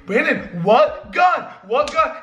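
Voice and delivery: high-pitched, baffled mimicry; mocked clueless idiot. Mimicking Brian upstairs, clueless idiot voice. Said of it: "all you hear is this idiot".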